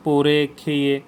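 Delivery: "পড়ে, খেয়ে", each with a clear final এ; clear e endings. Shown as a demonstration. Teacher giving sound examples, clear এ in "পড়ে, খেয়ে". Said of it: "এই যে এ sound হচ্ছে না".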